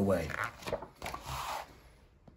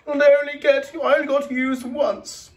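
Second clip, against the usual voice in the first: a lightly voiced sad plastic bag; high toy voice; 14 semitones higher, 3 dB louder than usual. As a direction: keep the small toy voice up. Characters voiced in story.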